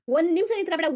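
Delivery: father losing his temper at his son; rising angry order. Acted. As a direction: push the order up in pitch. Father repeats order, escalating.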